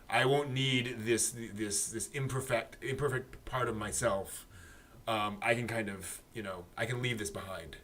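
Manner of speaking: understated, hushed musing; soft inner thought. Acted. Imagining the girl letting her glasses go, soft inner thought. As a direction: voice a private thought very softly. Voices the girl's private thoughts.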